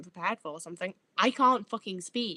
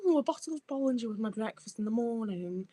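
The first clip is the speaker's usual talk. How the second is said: put-on posh accent. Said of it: "the accent that I do".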